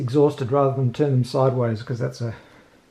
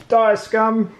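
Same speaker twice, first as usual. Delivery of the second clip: mock battle cry, louder; hammy war shout at the enemy; 5 semitones higher, 4 dB louder than usual. Battle cry killing the rat.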